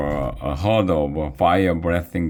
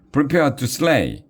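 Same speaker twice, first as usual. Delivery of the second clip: rising, higher-pitched call to charge; battle cry; 9 semitones higher than usual. A narrator's reading. Chauncey rallying his lads to attack, high battle cry. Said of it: "he cried".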